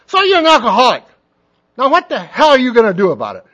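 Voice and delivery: loud, high mock shout; a gruff old man's mock yell; retold yell. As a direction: bark it at him like the old-timer did. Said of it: "he's yelling at me".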